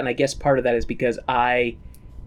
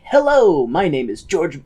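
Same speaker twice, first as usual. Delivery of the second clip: quote; 4 dB louder than usual. Retold or imitated. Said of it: "oh, sorry, I ruined that".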